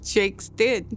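struggling to speak through shock; choked up. Retold or imitated. Mother telling her husband on the phone their son died, slow and choked. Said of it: "I couldn't even speak right".

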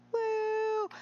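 high drawn-out woo; high, held "woo"; whoop. Real, not acted. Whooping during the game.

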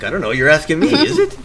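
hammed-up British retort, loud, jumping high on is it; mock British reply. Player answering the Brit in mock British tone. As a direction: parrot the British tag back. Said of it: "I'm like".

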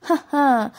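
short imitated scornful "ha ha"; dry mock laugh, retold. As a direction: mimic a derisive, unamused laugh. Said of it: "اضحك باستهزاء".

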